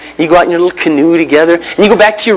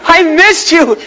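high, slow adoring wife voice; a wife's dreamy welcome home, pitched high; doting wife; 10 semitones higher, slower than usual. Pretend. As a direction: greet him like she's been waiting all day. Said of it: "Just kinda walk in the door and".

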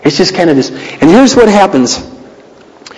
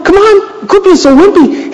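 God chiding; 13 semitones higher than usual. Retold or imitated. God chides Elijah.

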